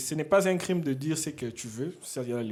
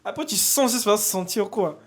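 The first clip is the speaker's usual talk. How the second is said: mocking imitation; 8 semitones higher, 10 dB louder than usual. Host replays the crude streamer's words.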